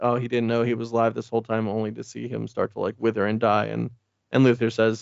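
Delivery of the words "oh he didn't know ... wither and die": usual speaking voice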